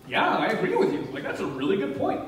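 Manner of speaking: amused agreement, pitched high at the start; laughing agreement. Retold or imitated. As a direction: agree while chuckling. His playful agreement with the atheists.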